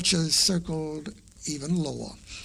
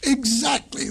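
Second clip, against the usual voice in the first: roaring lion; 7 semitones higher than usual. A narrator's reading. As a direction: bark it out like a lion king. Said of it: "roared the lion".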